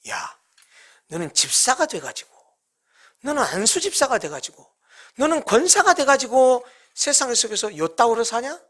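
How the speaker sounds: lightly voiced sneering tempter; Satan's taunting whisper. Satan taunting the deacon who loves the world, mock sneer. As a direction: needle the listener with scorn. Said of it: "사탄은 우리에게 이렇게 속삭입니다".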